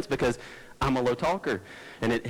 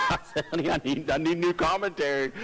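laughing; 3 semitones higher than usual. Retold or imitated. Retelling asking wife, laughing.

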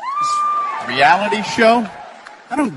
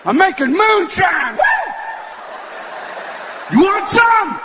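hick moonshiner; 8 semitones higher than usual. Retold or imitated. Moonshiner in the woods offers the comic some liquor, high hollering hick voice. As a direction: holler it like a proud woodsman in the trees.

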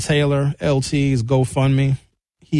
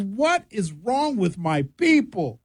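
exasperated lament; 4 semitones higher, 4 dB quieter, slower than usual. Acted. Lament about community food.

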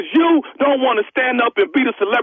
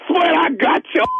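laughing; 6 semitones higher than usual. Real, not acted. Prank reveal, caller laughing.

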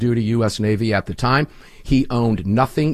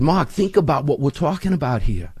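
put-on Neil McCabe in a higher Boston accent; imitated Boston accent, pitched up; 5 semitones higher than usual. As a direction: do your best Boston guy. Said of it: "I'll try to do his Boston accent".

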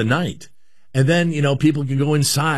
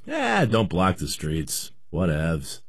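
mock dismissive shrug; 6 semitones lower, 5 dB quieter, much slower than usual. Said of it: "We're thinking".

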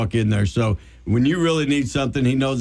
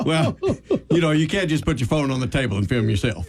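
laughing retort. Retold or imitated. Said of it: "I'm like".

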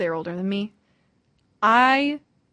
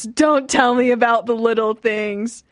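mildly raised reading voice; all-caps message; 4 dB louder than usual. Retold or imitated. Host reads roommate's all-caps text, mildly emphatic. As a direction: read it out in mock all caps. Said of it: "all caps".

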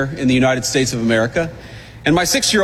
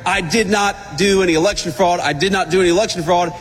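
mock protest. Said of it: "a guy protesting".

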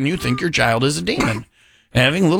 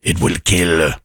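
mock ominous prophecy; 10 semitones lower than usual.

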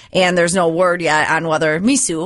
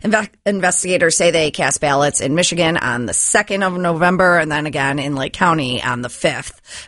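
brisk newscaster delivery; news read. Acted. Newsreader giving listeners the local stories, news read. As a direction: read it like a radio news bulletin.

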